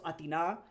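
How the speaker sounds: Athena with the last syllable stressed; stress on final A. Shown as a demonstration. Streamer recaps Athena for chat, stress on final A. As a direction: say Athena as ah-thee-NAH, lifting the end. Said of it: "where you put the emphasis".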